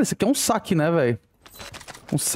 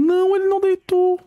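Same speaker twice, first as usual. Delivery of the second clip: surprised; 13 semitones higher, 3 dB louder than usual. Real, not acted. Disbelief at enemy not dropping.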